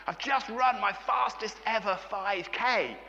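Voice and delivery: high, slow, drawn-out elated boast; wildly excited. Retold or imitated. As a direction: imitate a runner wild with excitement. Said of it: "he was wild with excitement".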